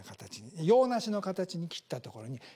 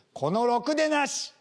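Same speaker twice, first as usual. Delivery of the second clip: a bit louder, slow mock yell; mock angry insult; 5 semitones higher, 4 dB louder than usual. Spouse cursing their partner, mock angry shout. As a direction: hurl the insult at your spouse. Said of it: "相手を大声で罵る".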